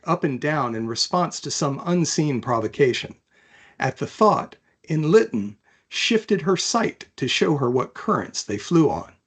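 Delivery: even, measured read-aloud of a novel; story narration. A narrator's reading. Author reading her fantasy chapter aloud, calm narration. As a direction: tell the story steadily to listeners.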